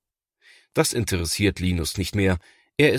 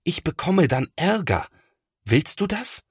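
put-on high, reproachful boy's voice; lightly voiced upset boy; reproachful older brother; 10 semitones higher than usual. A narrator's reading. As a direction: make him feel guilty. Thomas reproaches little brother.

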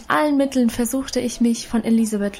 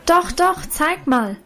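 high eager call of doch, doch; 7 semitones higher, slower than usual. A narrator's reading. Lina urging Annchen to show the dress, eager call. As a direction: press her eagerly, voice jumping up. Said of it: "rief nun aber auch schon Lina".

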